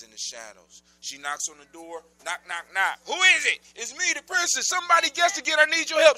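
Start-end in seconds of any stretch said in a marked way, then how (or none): 3.0-6.2 voicing the princess, pitched up; high character voice. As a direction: raise the voice for her lines.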